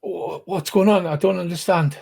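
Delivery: put-on confused captive in a Svenstown accent. Captive asking what is going on, in a Svenstown accent. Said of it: "she's got a strong, uh, uh, Svenstown accent".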